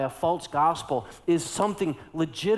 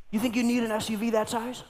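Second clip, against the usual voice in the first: retold yell; 7 semitones higher, faster than usual. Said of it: "they yelled at the top of their lungs".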